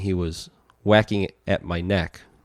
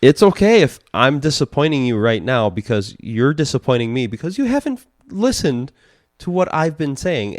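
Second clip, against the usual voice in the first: stern lecture; 2 semitones higher than usual. Retold or imitated. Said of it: "I'm like".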